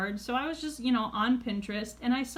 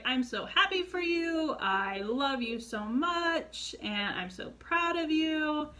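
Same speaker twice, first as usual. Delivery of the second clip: higher, drawn-out gushing, retold; gushing support; 5 semitones higher than usual. Best friend answering a coming-out, retold gushing support. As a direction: act out a friend being lovingly supportive.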